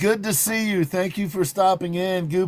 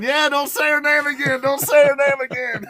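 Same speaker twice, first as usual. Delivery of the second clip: lightly voiced teasing warning, higher; mock-warn like a friend in the chat; quoting Ezra; 8 semitones higher than usual. Host imitating Ezra warning her not to say it, teasing. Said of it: "Ezra's up there going".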